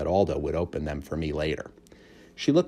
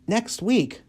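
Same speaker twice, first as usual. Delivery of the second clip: alarmed hamster. A narrator's reading. Humphrey alarmed.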